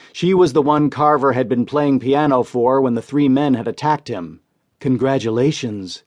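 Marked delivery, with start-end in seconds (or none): 4.8-6.0 sultry voice. Acted. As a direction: purr it like a nightclub singer. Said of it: "in a throaty, sultry voice".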